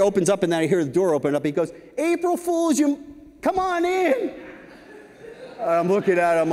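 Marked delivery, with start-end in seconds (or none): 2.0-4.3 higher, gloating boss voice for the gotcha; mock-triumphant boss laughing off the prank; gleeful prank reveal. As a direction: crow the punchline like you got him good. Boss springs an April Fools prank.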